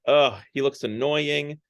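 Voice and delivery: annoyed groan into mild grumbling; mock complaining. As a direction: grumble lightly, imitating the passengers. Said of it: "they complain about it".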